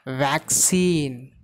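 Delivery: "vaccine" with stress meant on "vac"; stress on first syllable. Shown as a demonstration. Teacher showing noun stress to learners, VAC in "vaccine". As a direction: model "vaccine" as VAC-cine, falling at the end. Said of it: "the stress is given on very first syllable".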